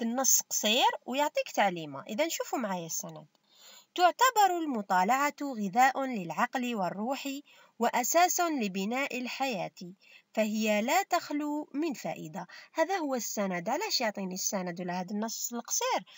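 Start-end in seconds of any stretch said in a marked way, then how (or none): 3.9-12.5 slow, fully voweled formal Arabic reading; formal passage reading. Shown as a demonstration. Teacher reads the source text to pupils, formal measured reading. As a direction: read the text out in measured phrases.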